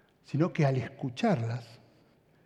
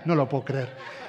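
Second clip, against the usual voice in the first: laughing; 2 semitones lower than usual. Real, not acted. Preacher laughs at his own story.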